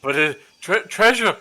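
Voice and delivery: high, loud treasure-obsessed squeal; greedy goblin whine. Acted. Character fixated on treasure.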